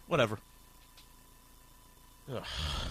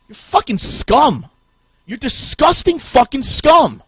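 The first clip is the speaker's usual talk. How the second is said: slow angry insult; 4 semitones higher, 5 dB louder, slower than usual. Real, not acted.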